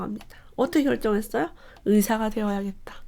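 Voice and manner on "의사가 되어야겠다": breathy whisper of a quiet decision; whispered resolve. Acted. A boy quietly deciding his future, whispered. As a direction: whisper it like a private vow.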